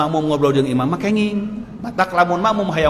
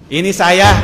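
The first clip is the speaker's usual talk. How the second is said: emphatic reply; 3 semitones higher, 6 dB louder, slower than usual. Retold or imitated. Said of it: "kata Rasul gitu kan".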